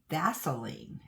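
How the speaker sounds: "Vaseline" in three beats with an uh inside; extra middle syllable. Shown as a demonstration. Owning up to a habit, extra syllable in Vaseline. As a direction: say "Vaseline" as VAS-uh-leen. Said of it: "I always say Vaseline".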